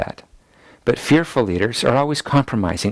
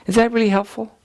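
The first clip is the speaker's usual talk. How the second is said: incredulous high question; 11 semitones higher than usual. Real, not acted.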